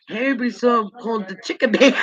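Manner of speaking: laughing. Real, not acted. Laughing while telling funny memory.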